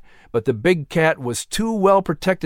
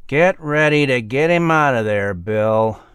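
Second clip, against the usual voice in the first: forced calm. A narrator's reading. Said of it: "he said as calmly as he could".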